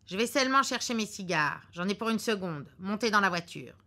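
brisk instructions to his wife; lightly voiced husband giving orders; husband's orders.

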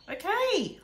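high, loud cry; girl crying out to her mother. Acted. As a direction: blurt it out in panic. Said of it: "I cried".

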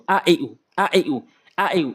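"আ, এ, উ" read short, without dragging; quick short vowels. Shown as a demonstration. Teacher showing quick Quran reading, short vowels. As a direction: keep "আ, এ, উ" brief. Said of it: "এভাবে দ্রুত পড়তে হবে".

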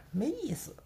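soft dismissive whisper. Real, not acted. Brushing off the critics, whispered. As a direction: breathe it out with a shrug. Dismissive aside about online spats.

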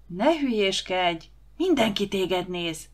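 slow, tense reproach; hissed scolding. Acted. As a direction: hiss a warning at someone fooling around. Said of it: "sziszegte Anikó".

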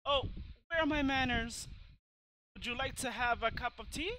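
lightly voiced old lady hostess; hospitable old lady. Old lady offering her visitor tea, lightly acted politeness.

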